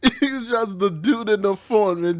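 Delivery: words breaking into real laughter; barely holding it together; laughing through words. Real, not acted. Retelling the caller's line, laughing.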